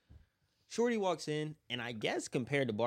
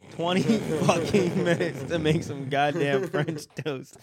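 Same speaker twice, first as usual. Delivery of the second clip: slow, loud, exasperated complaint; mock outrage over the long wait; exasperated retelling; 3 semitones higher, 10 dB louder than usual. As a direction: stretch out the outrage.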